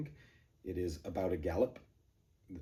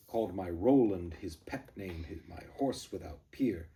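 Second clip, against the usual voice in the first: rapid cadence; 3 dB louder than usual. Shown as a demonstration. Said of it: "rapid cadence".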